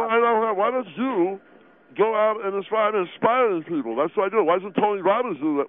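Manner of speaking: food in mouth; mouth full. Acted. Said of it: "Will you swallow the food".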